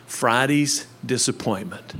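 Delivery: softly spoken lyric sinking to a whisper; soft song lyric. Retold or imitated. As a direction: breathe the lyric out, ending in a whisper. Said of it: "it starts out like this".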